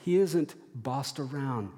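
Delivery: rising, stronger affirmation; confident declaration. Pretend. Believers declaring their Father is in control, rising conviction. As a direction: proclaim God's rule with growing conviction. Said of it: "we say".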